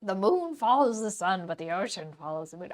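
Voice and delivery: a hint of a mystic sage; cryptic sage. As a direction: intone it like a mysterious old sage. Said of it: "I could do cryptic sage".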